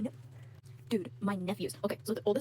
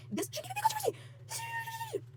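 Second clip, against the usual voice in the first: exasperated; 6 dB quieter, slower than usual. Real, not acted. Frustrated rant.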